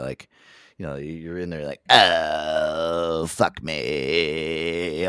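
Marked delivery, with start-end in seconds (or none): 1.9-5.1 a lightly voiced creaky moan; mock a woman with vocal fry in bed. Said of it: "she's talking like that".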